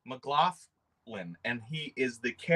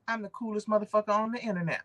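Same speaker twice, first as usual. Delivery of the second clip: lightly voiced, higher upbeat greeting; a friendly YouTuber hailing his viewers, a little higher; C B Hunts impression; 6 semitones higher, faster than usual. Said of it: "That may not have been a great impression".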